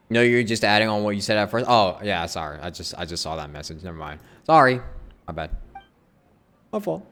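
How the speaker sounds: normal talking voice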